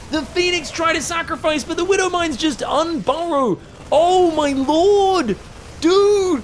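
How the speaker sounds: high, loud caster astonishment; hyped commentary. Real, not acted. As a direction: marvel at the play at full excitement. Hyped call of a brilliant play.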